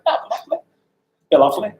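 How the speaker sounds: high, polite little gush; overawed acceptance. Retold or imitated. Hairdresser accepting the Queen's job, high overawed politeness. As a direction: pipe it up, mock-demure.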